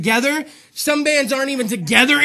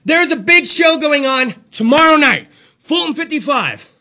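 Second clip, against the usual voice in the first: winded, breathless delivery; out of breath; 2 semitones higher, 4 dB louder than usual. Real, not acted. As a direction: speak short of breath. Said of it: "Out of breath".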